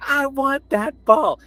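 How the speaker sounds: high, slow whiny demand; mock Karen demand. Retelling the Karen at the game, high, slow and whiny. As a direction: drag it out like a spoiled adult. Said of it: "And then she was like".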